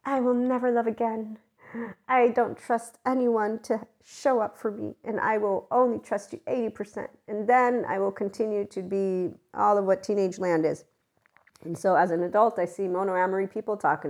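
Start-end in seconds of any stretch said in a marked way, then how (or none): 0.1-10.8 put-on heartbroken teen saga. Narrator mimicking a heartbroken teen's vow, mock dramatic. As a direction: lay on the wounded teenage vow. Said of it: "the saga story is".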